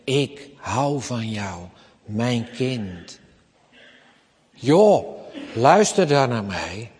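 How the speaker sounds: put-on God speaking tenderly to his child; gentle God. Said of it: "God zegt".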